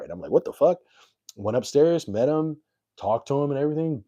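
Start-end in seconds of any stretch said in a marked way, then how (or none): 0.3-0.8 higher, louder mock disbelief; retold shock. Told Alec Baldwin wants him, higher louder surprise.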